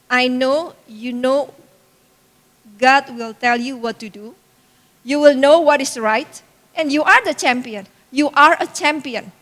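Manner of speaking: slow, deliberate words of encouragement; retold pep talk, slowly and firmly; earnest affirmation. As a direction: build up their belief, measured and sure. Mother affirming her daughter.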